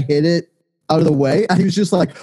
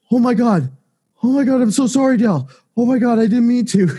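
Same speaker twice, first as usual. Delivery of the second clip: panicky coworker; 8 semitones higher, faster than usual. Retold or imitated. Coworker apologizing, voiced high.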